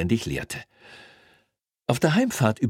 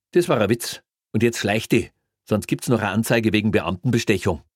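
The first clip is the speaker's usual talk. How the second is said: stern Bavarian cop; 3 semitones higher, 4 dB louder than usual. Acted. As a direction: send him packing sternly. Greiner voiced in story.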